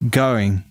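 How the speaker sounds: "going" with the vowel stretched like a rubber band; Australian stretched going. Shown as a demonstration. Showing friends the Australian "going" with a stretched vowel. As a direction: pull the o in "going" long and bouncy, Aussie style. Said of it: "that's a rubber band effect".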